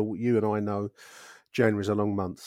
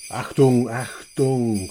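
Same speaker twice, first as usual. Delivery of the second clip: put-on movie villain German accent; 2 semitones higher, 5 dB louder, much slower than usual. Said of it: "Achtung, Millwall".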